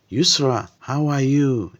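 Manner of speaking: put-on young man greeting Yusra as he drives by, cheerful. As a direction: call her name happily across the street. Greets the lady he loves.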